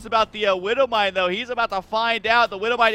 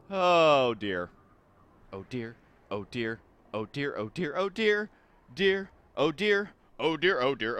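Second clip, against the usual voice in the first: breaking up in laughter; can't stop laughing; losing it; 5 semitones lower than usual. Real, not acted. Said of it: "I'm actually losing it right now".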